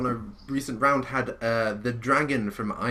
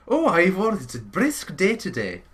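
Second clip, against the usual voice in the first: light Welsh lilt, lightly put on; a hint of a Welsh dragon; Welsh accent; 5 semitones higher than usual. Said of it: "With a Welsh accent".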